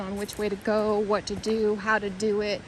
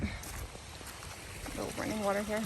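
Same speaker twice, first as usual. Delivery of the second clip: hushed whisper near the water; 14 dB quieter, slower than usual. Real, not acted. Vlogger hushing herself beside running water, whispering. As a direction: drop to a breathy hush, almost no voice.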